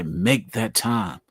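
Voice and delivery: "make that time" drawn out slowly; slow emphatic urging. Shown as a demonstration. Encouraging everybody, slow emphatic plea. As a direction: lay stress on "time".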